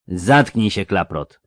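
put-on slow lisping older man. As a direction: lisp it slowly. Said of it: "zaseplenił wolno".

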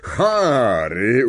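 pleased, drawn-out name call; glad greeting. A narrator's reading. Man looking up to greet a young guest, delighted call. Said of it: "ucieszył się".

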